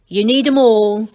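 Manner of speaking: proud gnome boasting; proudly. A narrator's reading. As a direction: say it with pride. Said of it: "said Angelo proudly".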